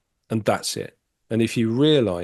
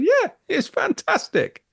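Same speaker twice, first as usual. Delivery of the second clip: much higher, slow, overblown gush; mock delight; 4 dB louder, slower than usual. Scene: told clients pay to talk twelve weeks, mock gushing. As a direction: ham up the excitement, stretched out.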